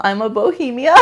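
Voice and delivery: giggling through the words; words breaking into giggles; laughing. Retold or imitated. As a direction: laugh it out as you say it. Laughing while quoting a card.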